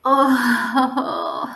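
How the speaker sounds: usual speaking voice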